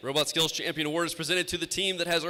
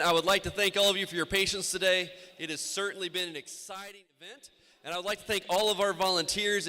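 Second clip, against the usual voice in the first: teacher voice. Shown as a demonstration. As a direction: address the room like a teacher. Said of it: "You don't wanna use teacher voice right now?".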